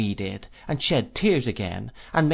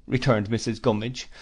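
ordinary delivery

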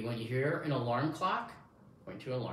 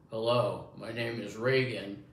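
lightly lowered man's voice; 2 semitones lower, 3 dB louder than usual. Shown as a demonstration. Showing the listener the man voice, lightly imitated. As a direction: say it as a man, a little louder. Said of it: "when you hear a man".

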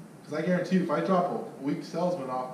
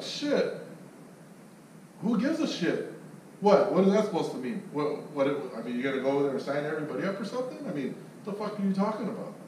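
mock outrage. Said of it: "I'm like".

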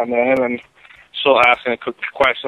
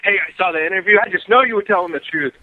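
higher, bright hyped-up fan; eager fan voice; 5 semitones higher than usual. Retold or imitated. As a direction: hype it up like a cheering fan. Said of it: "people be like".

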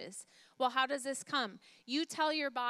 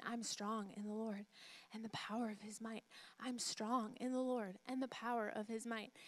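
growing stronger; 7 dB quieter than usual. Retold or imitated. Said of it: "saying it loud enough".

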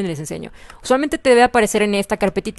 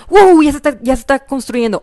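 asombro; 5 semitones higher, 8 dB louder than usual. Real, not acted. Ve construir su edificio.

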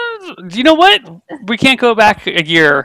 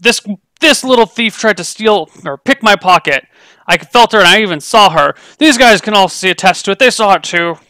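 raised, higher indignant merchant voice; indignant accusation; 4 semitones higher, 4 dB louder than usual. Acted. Merchant accusing the thief to the guards, indignant and raised. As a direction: point the finger hard and loud.

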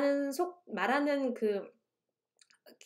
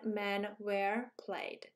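"dead", "men", "were" and "played" each stressed and held, very slow and drawn out; every word stressed; 3 semitones lower, 6 dB quieter, much slower than usual. Shown as a demonstration. Teacher drags out every word of "dead men were played" as its own stress, very slow. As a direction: stretch out "dead men were played" one heavy beat per word, very slowly. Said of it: "문장을 말하는 시간과".

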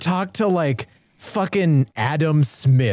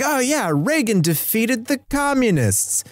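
raised pitch, imitating chirping trivia; mock cartoon kids; 6 semitones higher than usual. Host imitating the kids talking about Reagan, mock kid voice. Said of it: "So they're talking about".

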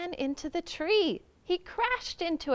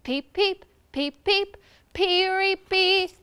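high, loud peeping; helpless chick-like wail; 5 semitones higher, 4 dB louder than usual. A narrator's reading. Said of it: "wailing at the top of his lungs".

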